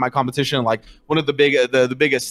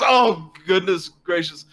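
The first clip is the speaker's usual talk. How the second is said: slow, higher-pitched dismay; dismayed orc; 5 semitones higher, slower than usual. Acted. Game master as orc who failed again, dismayed. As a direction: draw it out in mock dismay. Slapped orc voiced after failing.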